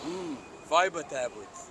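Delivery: cartoon character voice. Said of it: "two of my favorite scenes are the ones where he's like".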